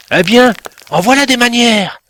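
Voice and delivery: high, loud indignant scolding. A narrator's reading. A pebble scolds Timek for tripping on it, high and indignant. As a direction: tell him off sharply for his manners. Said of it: "houspilla une voix".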